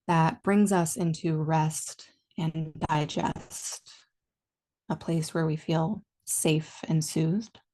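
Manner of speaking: calm meditation guide, long pauses between phrases; guided meditation. Real, not acted. Teacher leading listeners into body and breath awareness, calm guided meditation. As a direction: ease them gently inward, leaving space after each instruction.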